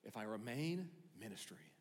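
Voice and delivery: musing serenely to himself; a hushed, peaceful Paul; calm Paul. Retold or imitated. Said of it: "and go".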